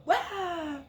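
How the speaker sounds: high, loud jump-out "Wow!"; scare yell. Retold or imitated. Grandma and granddaughter leaping from behind the tree with a loud scare yell. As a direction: burst out to scare the runners. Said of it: "And we went".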